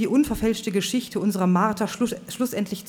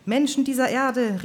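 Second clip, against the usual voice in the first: much higher, slow, loud call to the crowd; soaring preacher cry; 7 semitones higher, 4 dB louder than usual. Acted. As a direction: let the voice climb to the heights. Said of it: "seine Stimme schraubte sich in höchste Höhen".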